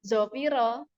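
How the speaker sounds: zofiro with plain z instead of dh; wrong z sound. Shown as a demonstration. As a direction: show the mistake zofiro. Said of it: "Nggak bisa kita sebut".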